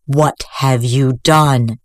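slow, grave priest voice; stern old priest. Acted. Master priest horrified.

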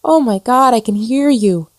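high, amazed rush of words; overjoyed disbelief; gasped. Acted. Ghost thrilled to be heard at last, high and gasping. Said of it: "she gasped".

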